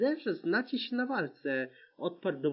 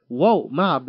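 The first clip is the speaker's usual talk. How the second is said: loud delighted cry; joyful yell of a friend's name; excited shout; 2 semitones lower, 11 dB louder than usual. A narrator's reading. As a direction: shout his name in joy. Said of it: "Krzyknął Wolf".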